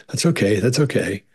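nachgeahmtes gepresstes Beruhigen; strained reassurance. Retold or imitated. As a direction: sag es, als wär's nicht wirklich okay. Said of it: "the mother was like".

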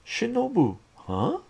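high, loud plea of her name; desperate call. Acted. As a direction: call out after her in panic. Ataru calls after girlfriend.

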